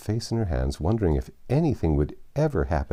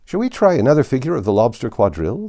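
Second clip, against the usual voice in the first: excited; 7 semitones higher, 8 dB louder, faster than usual. Acted. Gryphon eager to change subject.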